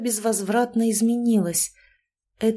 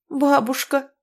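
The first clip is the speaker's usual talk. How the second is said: a mild sob, pitched higher; understated tearful plea; sobbed; 6 semitones higher, slower than usual. A narrator's reading. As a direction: catch the breath on the word. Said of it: "всхлипнула".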